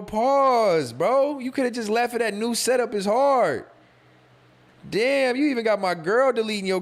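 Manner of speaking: high, loud, half-laughing protest; loud mock outrage. Real, not acted. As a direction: yell pause at the chat, mock scandalized. Reacting to a crude chat comment.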